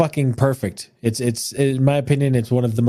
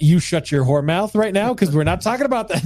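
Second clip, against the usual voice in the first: mock outrage; 5 semitones higher than usual. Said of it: "No, I'm just kidding".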